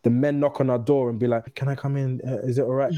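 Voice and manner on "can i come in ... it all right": tentative mock-meek request. Men knocking at the matriarchs' door, meekly. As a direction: imitate someone timidly asking permission. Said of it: "They're, like, meek".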